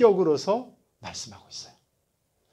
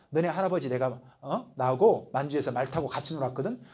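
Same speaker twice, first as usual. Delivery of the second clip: mock insult; 4 semitones lower, 5 dB quieter than usual. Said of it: "모욕할 때 어떻게 해요".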